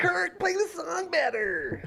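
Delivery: very high-pitched, drawn-out, stretched voice. Joking about members of a band, doing an impression of its drummer. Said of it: "That's my Lars impression".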